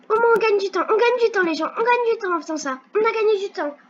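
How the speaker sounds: excited shout. Real, not acted. Racing to win time.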